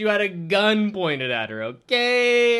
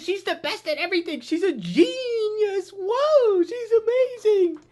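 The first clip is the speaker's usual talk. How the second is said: sarcastic awe; 11 semitones higher than usual. Pretend. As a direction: gush fake praise you don't mean at all. Sarcastic praise of the character.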